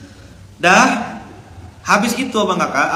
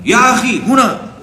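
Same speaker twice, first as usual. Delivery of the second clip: high loud commanding call across the room; authoritative security officer; 9 semitones higher, 6 dB louder, slower than usual. Retold or imitated. Dorm security officer summoning a boy, stern commanding call. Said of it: "kalau bagian keamanan kan ngomong suaranya di, wibawa-wibawa".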